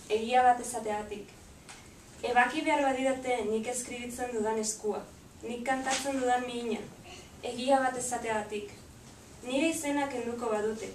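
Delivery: measured poem reading, line by line; poetry recitation. Acted. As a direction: recite in Basque with pauses between lines. Recites Basque poem to audience.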